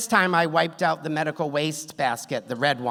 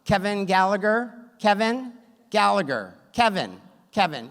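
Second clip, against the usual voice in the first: slightly raised, announcing waiting-room call; loud, proud nurse; 4 semitones higher, 4 dB louder than usual. Retold or imitated. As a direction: imitate a nurse calling out a name. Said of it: "a very loud and proud nurse".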